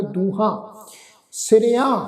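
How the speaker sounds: ਦੂਹਾਂ, ਸਿਰਿਆਂ with nasal final vowels; nasalised endings. Shown as a demonstration. Teacher shows the bindi, nasal endings on ਦੂਹਾਂ ਸਿਰਿਆਂ. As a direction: send the last vowels of ਦੂਹਾਂ ਸਿਰਿਆਂ through the nose. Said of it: "ਉੱਪਰ ਬਿੰਦੀ ਲਗਾ ਕੇ".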